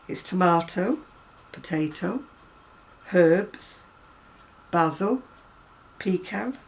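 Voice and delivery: word list with "tomato" as tom-AH-to, "herbs" with the h sounded; British northern pronunciation. Shown as a demonstration. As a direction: say "basil" with a short a, as a Mancunian reads a list. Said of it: "this is the way I do them".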